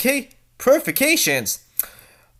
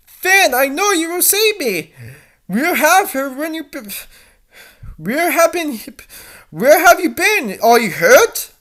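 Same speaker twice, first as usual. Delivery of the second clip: eager high plea; 8 semitones higher than usual. Acted. Dee Dee greets Finn.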